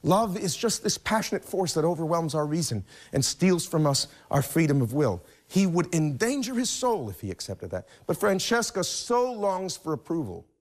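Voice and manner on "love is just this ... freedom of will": imagined Dante. Retold or imitated. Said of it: "If he were to say".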